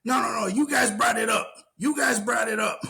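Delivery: high, tearful mock wail; mock crying shout. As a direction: whine and cry it out, half shouting. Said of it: "she's like".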